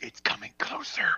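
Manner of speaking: breathless scared whisper; terrified whisper. Acted. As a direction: whisper it in dread. Fearing the monster.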